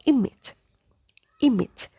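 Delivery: "image" said as IM-ij, short I in both syllables; correct "image". Shown as a demonstration. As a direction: model "image" crisply with -age as -ij. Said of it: "So the correct pronunciation of this word".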